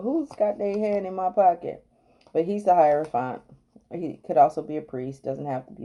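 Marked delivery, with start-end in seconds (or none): 0.0-1.8 imitating a man yelling out; higher-pitched retold holler, not full force; mock yell. The guy yells out about his pocket, mock yell. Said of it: "before the guy yells out".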